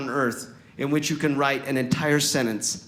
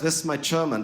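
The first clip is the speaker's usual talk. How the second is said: light put-on German accent. Shown as a demonstration. Admitting no progress in the language, comic German accent. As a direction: slip briefly into a German accent. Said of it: "amazing progress with my German accent".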